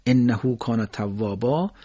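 انهو با هوی کشیده، آهسته; انهو کان توابا را با اشباع و آهسته بخوان; lengthened demo, slow. Shown as a demonstration.

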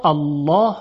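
الله with a dark, full backed a; full-mouthed الله; heavy lam. Shown as a demonstration. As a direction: thicken the lam of الله, like "allɔːh".

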